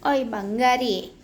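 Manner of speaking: drawn-out, slow pet name, tender coo; slow cooing call. Real, not acted. Coaxing a sulking pet, slow tender coo. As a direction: stretch the name out slowly to coax her.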